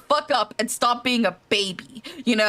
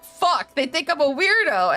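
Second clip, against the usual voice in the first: a pirate's embarrassed yelp, pitched higher at the start; pirate realizing he looks creepy, raised mock-panicked voice; pirate panicking; 6 semitones higher than usual. Lonely pirate caught lurking, pitched-up mock panic. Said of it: "So he's like".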